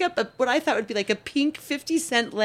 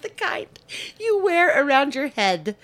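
daughter repeats; 6 semitones higher than usual. Retold or imitated. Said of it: "she goes".

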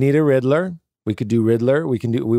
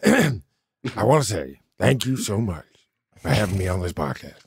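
Al Pacino; 2 semitones lower, 3 dB quieter than usual. Retold or imitated. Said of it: "a quick Al Pacino".

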